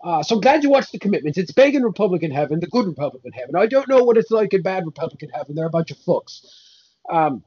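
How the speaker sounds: a hint of a grumpy saint, cursing; grumbling old saint fed up with rumours; mild put-on Irish saint; lightly voiced Saint Patrick. Saint Patrick character bit.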